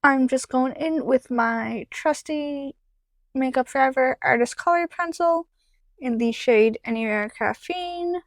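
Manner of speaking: talking while lining lips; while putting on lipstick. Real, not acted. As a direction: mouth stretched for lip liner. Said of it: "it's hard to talk and do lip liner".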